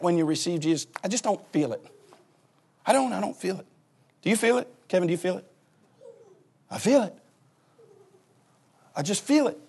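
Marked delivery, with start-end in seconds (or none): none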